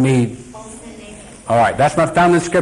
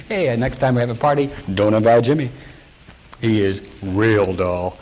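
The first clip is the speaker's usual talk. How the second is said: mocking friends; 5 semitones lower than usual. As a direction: sneer at the dull religious friend. Friends mocking religious Jimmy.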